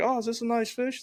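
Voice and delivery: high, naive, innocent voice.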